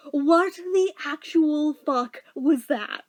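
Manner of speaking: slow baffled What the actual fuck; drawn-out disbelief. Retold or imitated. Still wondering years later, slowly baffled. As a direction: stretch each word in confusion. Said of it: "I'm still like".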